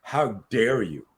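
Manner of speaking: slow, measured mock indignation. Coach defines indignation for the host, slow affronted delivery. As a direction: draw it out, mildly affronted. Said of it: "Indignation is like".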